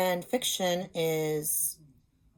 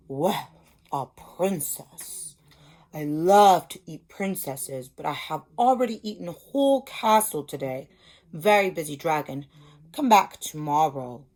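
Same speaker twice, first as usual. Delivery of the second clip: a hint of a smug dragon, lower and louder; a busy dragon brushing off the princess, done lightly; lightly voiced dragon; 4 semitones lower, 5 dB louder than usual. Dragon's lines in the story.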